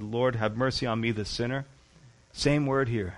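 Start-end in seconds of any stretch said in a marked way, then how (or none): 0.0-1.6 low, subdued imitated prayer; humble plea. Tax collector begging God for mercy, humble subdued plea. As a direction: pray it softly, head bowed. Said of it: "he couldn't even look up".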